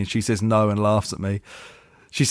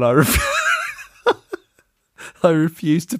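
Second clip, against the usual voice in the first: cracking up; 8 semitones higher, much slower than usual. Real, not acted. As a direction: voice jumps high into a laughing burst. Cracking up mid-sentence.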